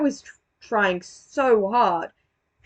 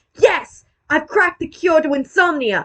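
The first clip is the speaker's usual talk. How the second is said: lively, energetic exclamation with pitch raised; 6 semitones higher, 4 dB louder than usual. Showing how a joke line should have been delivered: lively, not slow delivery. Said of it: "instead of having it so slow".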